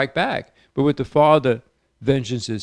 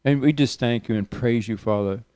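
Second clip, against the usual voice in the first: healing prayer. Acted. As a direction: pray over the listeners, calling healing into them. Radio preacher leads healing prayer.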